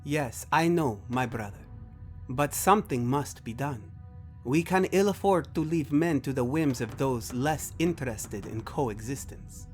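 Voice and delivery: lightly voiced formal, stately character; alien brother, earnest. One brother urges the other to act, formal and earnest. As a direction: argue a grave case with measured formality.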